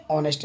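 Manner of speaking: ऑनेस्ट with the h dropped; vowel first in ऑनेस्ट; silent h. Shown as a demonstration. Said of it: "क्या पढ़ेंगे?". (ऑनेस्ट, ह silent)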